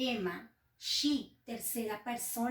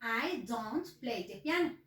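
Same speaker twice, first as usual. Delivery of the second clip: slow example; slower than usual. Shown as a demonstration. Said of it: "Y digo".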